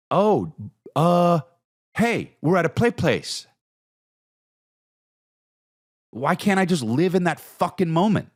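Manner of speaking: high, strained voice arguing with himself; a frantic inner voice pushing for happiness; exasperated self-quote. Retold or imitated. Himself at the play place.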